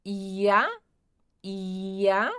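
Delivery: ia with a final A sound; German pronunciation. Shown as a demonstration. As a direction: model ia for the class. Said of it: "fazemos a pronúncia como se tivesse um A no final". (ia com som de A no final)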